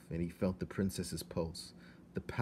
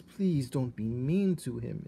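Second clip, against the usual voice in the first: higher, slow, pleading; a girl near tears, higher; pleading princess; 5 semitones higher, 4 dB louder than usual. A narrator's reading. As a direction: beg your father gently. Princess pleading, weeps after.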